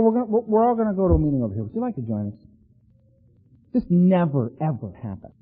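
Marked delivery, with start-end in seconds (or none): 0.0-2.4 mock gentle invitation.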